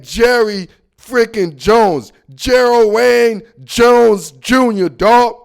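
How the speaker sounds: loud, drawn-out full name in disbelief; indignant name-calling. Real, not acted. Host indignantly calling out the team owner, loud and drawn out. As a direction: stretch out each name, loud and hard.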